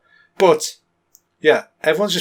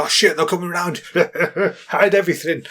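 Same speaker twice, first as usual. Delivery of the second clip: laughing panic; 3 semitones higher than usual. Retold or imitated.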